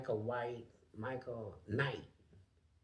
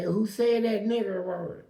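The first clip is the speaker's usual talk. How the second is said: retold challenge; 9 semitones higher, 11 dB louder than usual. Retold challenge in prison fight.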